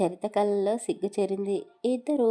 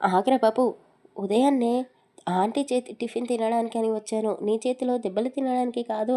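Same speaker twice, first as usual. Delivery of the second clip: playful shout; 3 semitones higher, 4 dB louder than usual. Acted. Friend dodges Karthik's blows, louder playful shout. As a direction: yell it over your shoulder running away.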